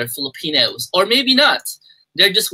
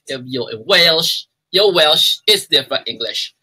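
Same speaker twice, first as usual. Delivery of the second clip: Welsh accent. Shown as a demonstration. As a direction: play around with Welsh English. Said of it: "I'm just playing around with accents".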